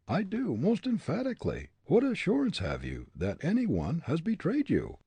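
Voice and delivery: high, firm denial; emphatic denial. A narrator's reading. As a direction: insist hard you're innocent. Hartley denying firmly.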